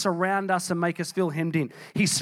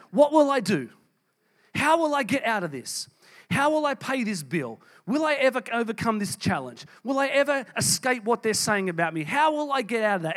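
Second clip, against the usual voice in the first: anxious self-questioning; 4 semitones higher than usual. Acted. Anxious self-talk when feeling surrounded.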